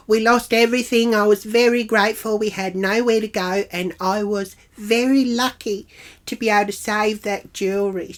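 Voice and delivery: put-on tearful pleading; mock teary. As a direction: plead her hard-luck story, mockingly weepy. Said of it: "She starts getting all teary".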